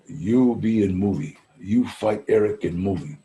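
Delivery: put-on Russian accent. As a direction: lightly do the Russian director, unhurried. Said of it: "There's a Russian aristocrat".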